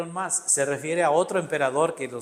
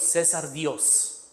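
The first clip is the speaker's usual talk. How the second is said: César Dios drawn out slowly and a little softer; slowed way down; 5 dB quieter, much slower than usual. Shown as a demonstration. Teacher slowly repeats the inscription to students, drawn out. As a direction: spell out each word slowly for the class. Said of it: "donde dice César".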